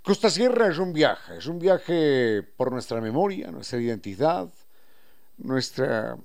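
lightly warm, upbeat spot for a restaurant; host reads a live ad for Costa Sierra, upbeat; radio ad read. Acted. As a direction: sell the place like a radio host plugging a sponsor.

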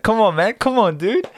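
loud, high-pitched buddy nudge; encouraging food-truck guy. Retold or imitated. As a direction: repeat the vendor's pep-up with pitch way up. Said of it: "He just said".

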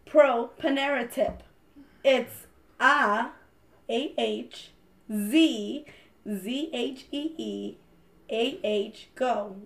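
slow, fumbling tipsy reading. Real, not acted. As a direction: spell it out a bit tipsy. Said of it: "I'm getting drunk".

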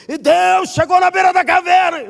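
full-force sermon shout; booming preacher shout. Retold or imitated. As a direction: thunder the line to the crowd. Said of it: "Lembrei do conselho do carro".

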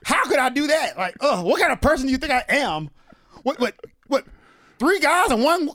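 mock pearl-clutching shock. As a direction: play the scandalized prude, clutching pearls. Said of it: "Got your pearls".

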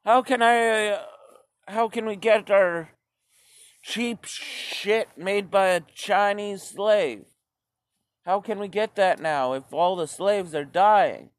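high, whiny mock panic; panicked consumer. Everyone fretting over Chinese goods, high mock whine. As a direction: squeal like someone losing cheap goods. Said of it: "everybody was like".

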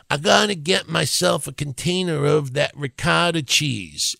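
plainly enunciated "ri-COT-a" with a soft flapped t; standard "ricotta". Acted. Host mimics shoppers asking for cheese, standard "ricotta". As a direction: say "ricotta" the careful mainstream way. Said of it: "How many of you out there go to".

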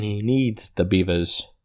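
put-on half-hearted German accent; attempted German accent. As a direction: make a poor stab at a German accent. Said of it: "That's not really a German accent".

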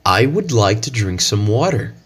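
American English reading of the phrase; American accent. Shown as a demonstration. Teacher demos the sentence in an American accent. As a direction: say it the American way, rhotic water. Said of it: "the phrase using the American accent".

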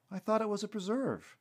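high-pitched, incredulous protest; stunned disbelief. A narrator's reading. Stunned Terry hears the forest will be sold, incredulous. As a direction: object in startled disbelief. Stunned listener objects to news.

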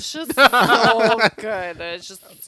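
slow, slurred and coaxing; lightly voiced drunk pusher, laughing. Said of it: "do your drunk voice".

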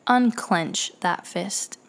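calm him down without showing fear. Retold or imitated. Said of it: "I tell him in a very calm voice".

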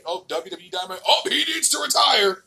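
mock outraged fan, high and shouted at the end. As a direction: ham up a dumb fan yelling about retirement. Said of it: "then you hear him say".

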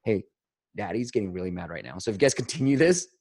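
put-on calmly name your anger to the kids; calm warning to kids. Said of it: "I'm like".

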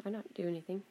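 a touch of a robotic innocent voice; mock innocent Alexa. The Echo denying it did anything, mock innocent. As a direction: play the innocent device. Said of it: "she'd stop and go".

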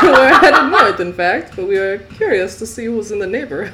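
put-on loud, high comic French accent. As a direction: push a French accent through laughter. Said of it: "I lost my French accent".

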